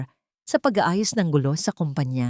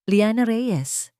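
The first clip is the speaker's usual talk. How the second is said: trembling with emotion; 5 semitones higher, much slower than usual. Acted. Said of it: "Ang boses ay nanginginig sa emosyon".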